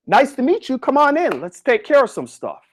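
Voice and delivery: welcoming and at ease; smiling welcome. Shown as a demonstration. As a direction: friendly demo greeting, easing down at the end. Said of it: "smile at them, and say".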